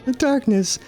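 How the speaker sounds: solemn pleading goddess, lightly voiced; a hint of a grave divine mother. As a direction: ask for help in a lofty goddess voice. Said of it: "I can't believe I'm doing these voices".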